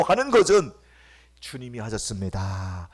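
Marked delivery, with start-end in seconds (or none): 1.4-2.9 soft first take. Acted. Repeated phrase, soft then loud.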